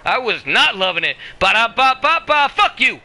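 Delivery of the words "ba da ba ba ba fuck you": mock taunt. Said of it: "I hope somebody audio clips that".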